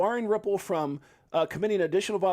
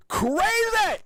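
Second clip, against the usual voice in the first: high, loud yelp on crazy; crazy jumps way up; hyped; 4 dB louder than usual. Real, not acted. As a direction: throw the word up in excitement. Hyping price going crazy.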